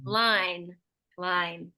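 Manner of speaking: "line" said singly with a full final N; clear final N. Shown as a demonstration. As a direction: model "line", landing on the N. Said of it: "with that final N there".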